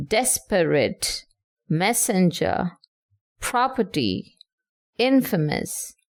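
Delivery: "desperate, messenger, property, infamous", each stressed on the first syllable; dactylic stress. Shown as a demonstration. Teacher gives examples of dactyls, first syllable stressed in "desperate, messenger, property, infamous". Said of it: "See how the stress is".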